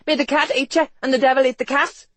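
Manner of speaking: high, loud woman's curse; cried-out curse. A narrator's reading. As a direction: fling the curse out shrilly. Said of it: "the woman cried".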